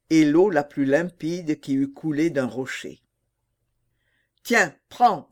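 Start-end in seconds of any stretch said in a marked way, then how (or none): 4.4-5.3 lightly voiced sea witch; a hint of a scheming old witch. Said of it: "dit la sorcière".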